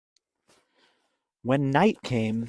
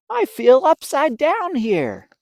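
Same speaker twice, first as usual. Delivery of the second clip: much higher, louder odd-feeling line; puzzled bird voice; 12 semitones higher, 12 dB louder than usual. Acted. Flap telling the bats he feels upside down. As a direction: sound a bit dizzy.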